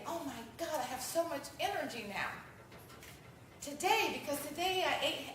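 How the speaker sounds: bright, energetic boast about feeling great, with a brief laugh mid-line; upbeat bragging. Retold or imitated. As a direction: sell it like a cheerful convert. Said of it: "but if you say".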